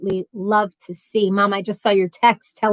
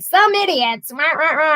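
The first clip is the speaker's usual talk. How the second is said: higher-pitched imitation of griping; mock grumbling; 6 semitones higher than usual. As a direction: retell your own rant, hammed-up. Retells her grumbling about the neighbours.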